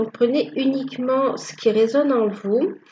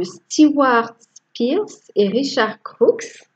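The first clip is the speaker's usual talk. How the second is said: French-accented English names; 3 semitones higher, slower than usual. Real, not acted. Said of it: "Je rigole moi-même de mon accent".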